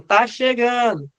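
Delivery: voiced heart leads. Nearby leads announcing the impulse arriving, lightly acted slow call. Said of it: "tão dizendo".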